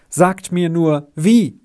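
desperate plea for how; beside himself. Acted. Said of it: "rief er außer sich".

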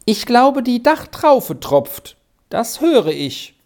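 high, slow called-out reply; calling out. A narrator's reading. Arthur reports the dripping to Squirrel, calling out. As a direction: call it up the stairs, drawing it out. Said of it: "rief er dann".

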